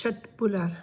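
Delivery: köttbullar with a "sh" onset; soft Swedish K in köttbullar; Swedish pronunciation. Shown as a demonstration. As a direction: say köttbullar plainly the Swedish way, "shett-bullar". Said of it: "it's called köttbullar".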